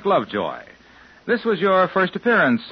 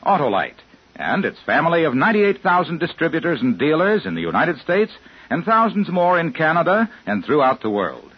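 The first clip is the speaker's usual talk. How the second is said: ad read. Acted. Sponsor ad read.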